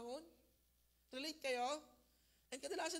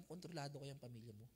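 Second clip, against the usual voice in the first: soft, hushed and gentle questioning; tender voice of the Lord; 7 semitones lower, 8 dB quieter than usual. Acted. The Lord softly asking the believer why he fears, hushed and tender. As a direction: speak softly, as God comforting a frightened believer.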